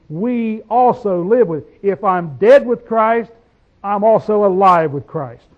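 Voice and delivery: slow, deliberate reading of the verse; slow scripture reading. Acted. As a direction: lay each word down slowly.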